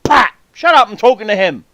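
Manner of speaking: loud, high snap to shut him up; snapping at friend. Retold or imitated. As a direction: bark at Pat to butt out. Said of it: "I'm like".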